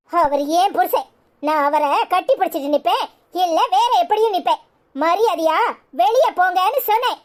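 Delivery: wife ordering her in-laws out of the room, angrily; angry. Acted. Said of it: "ஏன் இப்படி கோவமா பேசுற?".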